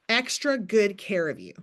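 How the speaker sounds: "extra" hit first and hardest; stress on extra. Shown as a demonstration. Coach showing her sign-up line, stress on "extra". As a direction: punch "extra" at the start. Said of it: "in all caps".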